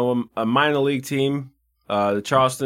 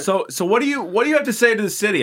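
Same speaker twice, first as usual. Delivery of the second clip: put-on Chicago accent; 7 semitones higher, faster than usual. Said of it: "How are our Chicago accents?".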